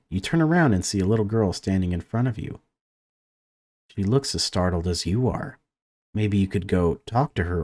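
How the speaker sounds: lively read-aloud of game text; story narration. A narrator's reading. Gamer reads entering a child's room, story narration. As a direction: narrate the scene with lifted openings to sentences.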